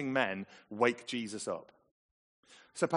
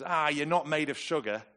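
brisk, higher-pitched brush-off; family motto; 4 semitones higher, 4 dB louder than usual. Retold or imitated. Parent getting the family out in the rain, chiding. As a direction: chide them lightly with the family saying. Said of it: "The phrase is".

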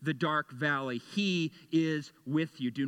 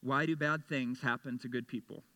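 lower, plaintive question fishing for sympathy; commiserating lament; 4 semitones lower, 4 dB quieter than usual. Shown as a demonstration. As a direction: ask it wanting company in the hurt, not an answer. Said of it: "ask questions like this".

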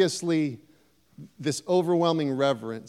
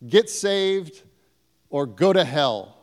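louder, pushy street-preacher bark, ending in a sneer; mock hellfire preacher; 5 semitones higher, 5 dB louder than usual. Mocking a preacher who shouts threats at the lost. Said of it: "we don't do it with violence by declaring".

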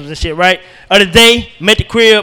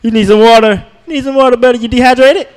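mock caring; 4 semitones higher than usual. Fussing over kid in audience.

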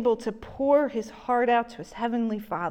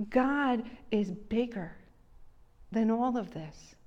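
gentle comfort. Retold or imitated. Preacher to crying girlfriend on the phone, tender. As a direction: hold her steady with calm words.

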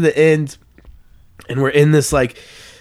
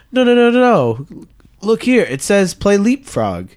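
insistent leader; 6 semitones higher than usual. Retold or imitated. Leaders arguing over camp game.

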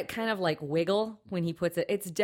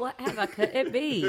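mock British accent, pitched up; bad British accent; 4 semitones higher than usual. Co-host jokes about the burglar, bad British accent. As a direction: put on a hammy British voice. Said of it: "That was terrible".

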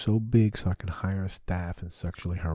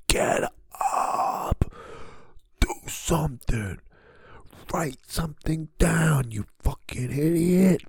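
higher, louder, slow berating shout at himself; self-berating yell; 10 semitones higher, 8 dB louder, slower than usual. Retold or imitated. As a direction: bark orders at your lazy self. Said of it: "where you're like".

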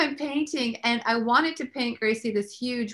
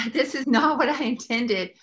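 mock arguing with God; 4 dB louder than usual. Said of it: "I'm so arguing with God".

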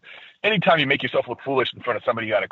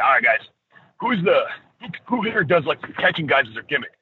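lightly voiced Triple H, casual boss chewing gum; a hint of a relaxed wrestling boss addressing the extras; Triple H impression; 3 semitones higher than usual. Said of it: "that was me doing a Triple H impression".

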